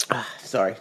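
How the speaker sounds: usual speaking voice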